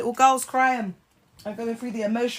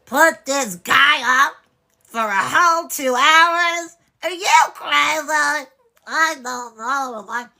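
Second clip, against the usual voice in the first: slow, high, loud disbelief; mocking the very idea; incredulous; 5 semitones higher, 6 dB louder, much slower than usual. Real, not acted. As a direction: drag out each word in disbelief. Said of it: "incredulous slow mock".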